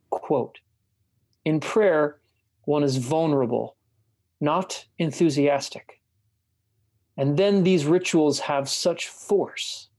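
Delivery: measured reading of a written dialogue; book reading. A narrator's reading. Host reads a bishop interview to a friend, measured book reading. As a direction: read the passage aloud deliberately, phrase by phrase.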